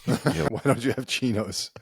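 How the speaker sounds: slow, sniffy fashion rebuke; snooty local. Pretend. Snooty Italian scolding the tourist's clothes, slow and sniffy. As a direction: scold the tourist's outfit from above.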